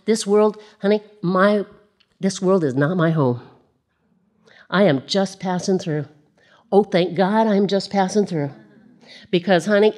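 real slip into a Southern accent. Real, not acted. Preacher testifying to the congregation, Southern accent slipping out. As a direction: let a Southern twang pop in. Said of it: "That Southern accent just pops right in there".

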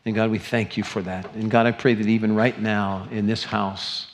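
earnest pastoral prayer. Real, not acted. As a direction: pray over the congregation, steady and sincere. Opens closing prayer.

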